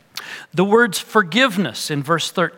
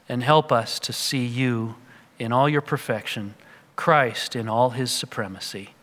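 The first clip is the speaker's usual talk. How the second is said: closing prayer. Acted.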